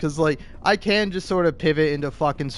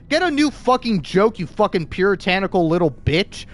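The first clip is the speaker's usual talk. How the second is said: angry retort; 4 semitones higher, 3 dB louder than usual. Real, not acted. Retorting at critics.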